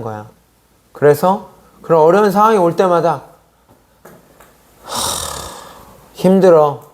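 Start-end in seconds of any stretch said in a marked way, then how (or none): 4.8-6.8 heavy exhale, then a put-on complaint; mock worn-out sigh; acted weary sigh. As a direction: sigh it out like someone struggling. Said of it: "그렇게 표현하고".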